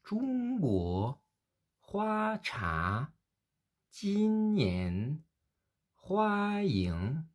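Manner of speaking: Zhongguo, Hua Cha, Jin Nian, Hua Ying : première syllabe haute et plate, seconde qui monte nettement; premier et deuxième ton modèle. Shown as a demonstration. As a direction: faire remonter franchement la seconde syllabe. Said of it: "premier ton et deuxième ton". (modèle premier ton puis ton montant)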